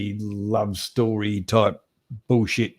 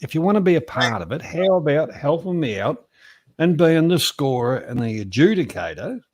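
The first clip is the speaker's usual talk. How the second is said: raised voice; 4 semitones higher, 3 dB louder than usual. Retold or imitated. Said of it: "So I said to him".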